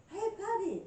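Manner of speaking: high, loud Irish call; Irish accent. Acted. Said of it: "I got me an Irish accent".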